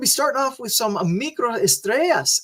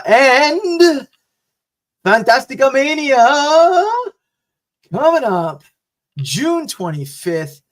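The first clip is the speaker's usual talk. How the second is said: excited; 8 semitones higher, 6 dB louder, slower than usual. Real, not acted. Hyping the upcoming big show.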